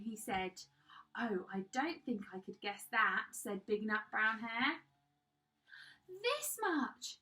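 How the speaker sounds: expressive bedtime storytelling with drawn-out key words; animated picture-book narration; children's story reading. A narrator's reading. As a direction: read it to small children, lifting the dialogue. Reads a picture book aloud.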